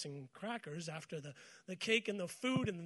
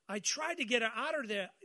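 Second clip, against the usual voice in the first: put-on Eastern accent; 2 semitones higher than usual. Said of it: "that was an Eastern accent there".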